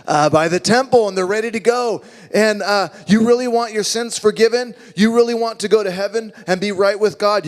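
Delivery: fake-apologetic pushy seller; pushy salesman. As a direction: upsell him with fake sympathy. Seller pushing pre-blessed pigeons.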